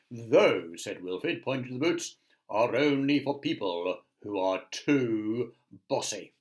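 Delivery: grand wizard voice. Acted. Wizard scolding Miss Bossy, lightly grand. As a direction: announce it like a lordly wizard. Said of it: "all wizards speak in a very grand voice".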